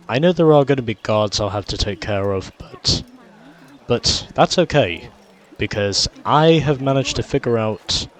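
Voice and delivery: talking through a head cold; stuffy nose. Real, not acted. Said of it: "hearing the voice of a sick boy".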